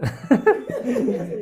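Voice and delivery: a sudden high burst of laughter. Real, not acted. Teacher laughs at catching the student out. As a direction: laugh at having caught him out.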